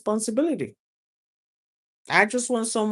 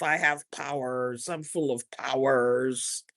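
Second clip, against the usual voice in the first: muttered affirmation; 8 semitones lower, 4 dB quieter than usual. Shown as a demonstration. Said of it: "I'm talking to myself".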